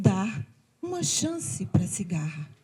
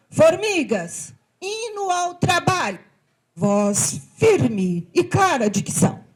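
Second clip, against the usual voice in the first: commanding call; 10 semitones higher, 3 dB louder than usual. Acted. Ant commands the choir.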